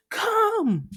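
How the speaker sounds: high, loud yell of come; shouted rallying cry. Retold or imitated. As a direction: heroes call out together, loud yell. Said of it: "they're like".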